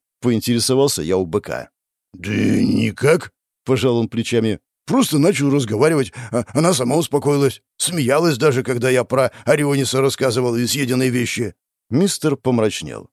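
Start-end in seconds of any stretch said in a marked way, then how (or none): 2.1-11.5 lightly voiced Minotaur. Minotaur character voice.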